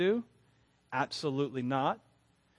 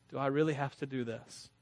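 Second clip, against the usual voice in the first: reluctant; 5 dB quieter than usual. Retold or imitated. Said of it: "I go like this".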